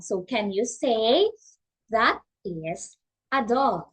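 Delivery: slow, clear model sentence; slow teacher model. Shown as a demonstration. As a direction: say it slowly so a child can copy.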